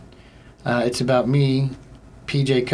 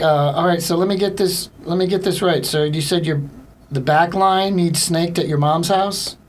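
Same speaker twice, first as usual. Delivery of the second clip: mock incredulous confirmation; 5 semitones higher than usual. Acts confirming caller's request.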